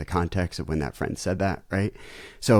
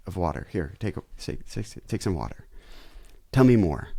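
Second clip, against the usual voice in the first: empathetic dad. Shown as a demonstration. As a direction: soothe her and invite her to talk. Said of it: "meet emotion with emotion".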